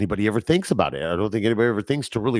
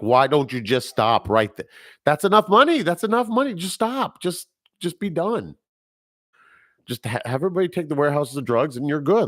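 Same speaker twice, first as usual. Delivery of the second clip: yelling at the movie; 5 semitones higher than usual. Retold or imitated. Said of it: "I'm like".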